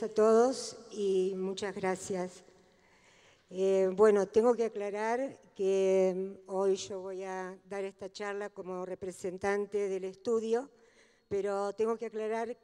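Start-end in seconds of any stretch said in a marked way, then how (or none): none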